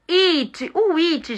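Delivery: breathy whispered "It"; unvoiced "It" demo. Shown as a demonstration. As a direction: whisper the word "It".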